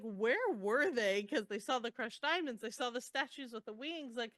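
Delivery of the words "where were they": exasperated. Retold or imitated. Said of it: "And I'm just like".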